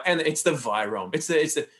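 a hint of a lulling, even lecture tone with vocal fry; mild mock of a soothing podcast host; Zach impression. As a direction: lightly imitate a calm guru lulling listeners into complacency. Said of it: "forgive the shitty impression".

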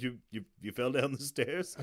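low, stammering through laughter; laughing stammer. Retold or imitated. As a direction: stutter it, half laughing. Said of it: "Dreyfus is like".

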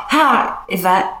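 lightly voiced spirit greeting; spirit guide. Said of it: "And it's like".

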